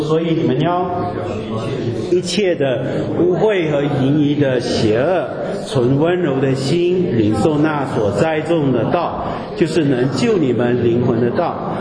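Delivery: slow, deliberate reading of the verse; scripture reading. Acted. Preacher reading the next verses to the church, slow and solemn. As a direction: lay each phrase down slowly, like holy text.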